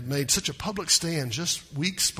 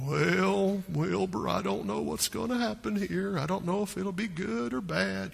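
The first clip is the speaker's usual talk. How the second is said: Eeyore impression; 4 semitones higher, 5 dB quieter than usual. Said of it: "It's kinda like Eeyore".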